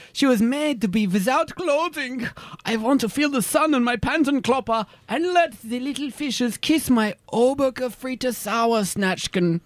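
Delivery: put-on thick German tourist accent. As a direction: play a blunt German nudist. Tourist voice, some lines slow.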